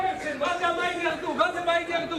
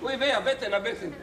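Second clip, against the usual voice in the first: mock belly pain; 4 semitones lower than usual. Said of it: "והכאבים אצלי".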